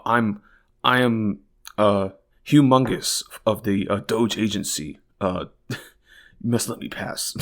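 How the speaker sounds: lightly hammed pompous bureaucrat; pompous DOGE staffer. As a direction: ham up a self-important official. Mocking a self-important DOGE staffer.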